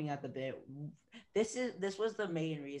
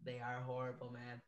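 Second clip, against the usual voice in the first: talking through a yawn; words stretched by a yawn; 5 dB quieter than usual. Real, not acted. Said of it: "I'm yawning right now".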